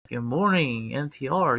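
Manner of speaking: low, smooth public radio host; deep NPR radio voice. Pretend. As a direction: croon it like a morning radio host. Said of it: "gotta lower my voice deep".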